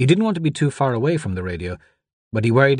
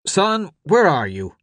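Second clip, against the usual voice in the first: slow, raised radio voice; questioning deputy; 8 semitones higher, slower than usual. A narrator's reading. Deputy asks the boy over the radio, insistent. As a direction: press the boy slowly for an answer.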